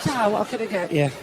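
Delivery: calm barman again. Retold or imitated. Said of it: "the bloke who stands there and goes".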